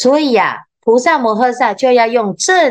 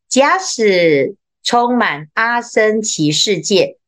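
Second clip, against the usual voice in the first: slow, measured scripture recitation with falling close; sutra reading; slower than usual. Acted. Teacher reading sutra text to students, slow measured recitation. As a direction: intone the sutra phrase slowly.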